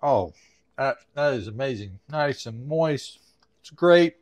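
talking with mouth full. Real, not acted. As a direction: speak through a mouthful of pork chop. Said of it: "Shouldn't talk with my mouth full".

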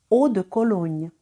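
Eau de Cologne, clear French vowels, eau held; French model phrase. Shown as a demonstration. Teacher modelling Eau de Cologne for students. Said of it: "Répétez après moi".

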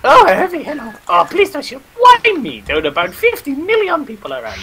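high, pleading mock panic. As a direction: beg not to be shot.

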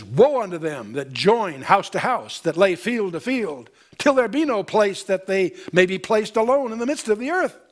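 measured, solemn Bible reading; solemn pulpit reading; scripture reading. Acted. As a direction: read it like holy writ to the congregation. Reads scripture aloud.

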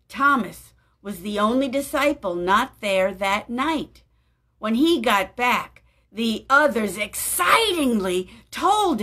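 put-on gentle storybook narration for children; story reading. A narrator's reading. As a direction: read it like a children's Bible story. Reads Bible story aloud.

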